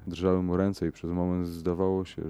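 plain reading voice

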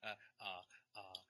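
halting, stalled hesitations; stammering film-star impression; Jeff Goldblum. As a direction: lightly mimic a hesitant actor with pauses before landing the last word. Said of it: "You, you just did a Jeff Goldblum".

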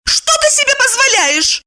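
high, outraged rebuke; be scandalized; indignant. A narrator's reading. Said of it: "возмутилась она".

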